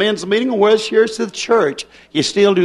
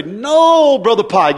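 mock protest; slower than usual. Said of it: "Somebody say".

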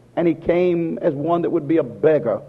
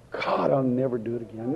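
softer, inward promise; hushed vow; 8 dB quieter than usual. Retold or imitated. Repentant sinner vowing to God, hushed. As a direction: murmur it like a private confession.

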